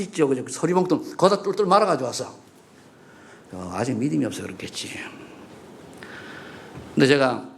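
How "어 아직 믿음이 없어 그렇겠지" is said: a quiet, forgiving aside under the breath; whispered aside. Real, not acted. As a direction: drop to a soft whisper, lower, as if to yourself. Aside about the believer.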